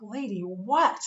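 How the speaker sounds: retold snide question, only a hint of attitude; mildly snide retort to the nurse. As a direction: ask it with a light snide edge. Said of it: "Really kinda snide".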